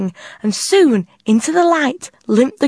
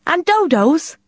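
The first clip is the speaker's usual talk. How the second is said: hopeful; 8 semitones higher, 3 dB louder than usual. A narrator's reading. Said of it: "asked Tilly hopefully".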